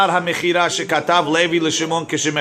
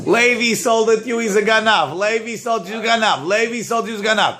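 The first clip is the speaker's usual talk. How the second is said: higher, mock screaming accusation; pitched-up mock accusation; retold scream; 4 semitones higher than usual. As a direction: play the son yelling thief. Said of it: "he's screaming".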